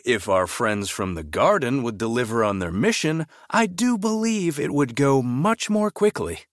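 a touch of smug self-importance; lightly voiced pompous headmaster. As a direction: boast to the council, pleased with himself. Headmaster reports to council.

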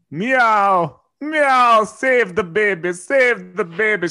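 high, loud cat cry for help; meowing cat. Acted. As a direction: yowl it like a desperate cat. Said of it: "She then meowed".

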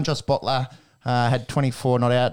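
a slight, unintended English accent. Real, not acted. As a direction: slip into a hint of English accent. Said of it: "said that in an English accent".

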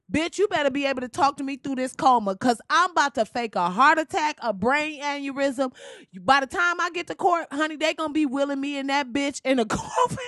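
playing the passenger. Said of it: "let me be Doctor David".

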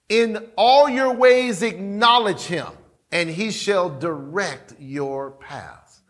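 slow, measured verse reading; scripture reading. Acted. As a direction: read it reverently, slowly.

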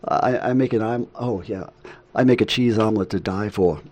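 lightly imitated New York accent; a hint of a chatty New York accent. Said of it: "And in her New York, uh, accent".

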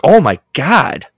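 daughter's excited text read aloud; excited oh my God. Shown as a demonstration. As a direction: read it as a thrilled reaction. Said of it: "Or is she reading the text like".

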